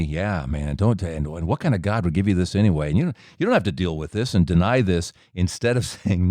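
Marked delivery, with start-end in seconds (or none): 0.0-5.1 lightly voiced smoky tempter; a hint of a casual, insinuating devil; smoky evil tempter. Evil one talking him into denial, lightly voiced smoky tempter. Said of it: "that smoky voice telling me".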